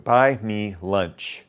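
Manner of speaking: BUY ME LUNCH stepping down; embedded command. Shown as a demonstration. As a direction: slip in "buy me lunch" with a falling tune. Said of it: "I just worked it in".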